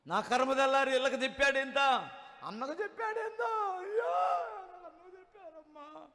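high, loud hammed-up wail that fades off; mock wailing. Preacher mocks people who wail at being caught, hammed-up high loud wail. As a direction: wail over being found out, not over the sin. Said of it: "నేను ఏడ్చే వాళ్ళు ఉన్నారు".

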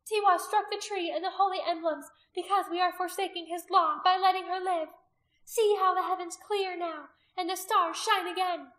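high, loud, triumphant verdict; ringing high-pitched condemnation; pronouncing sentence. A narrator's reading. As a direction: proclaim judgment to the crowd. Priestess proclaiming to the crowd.

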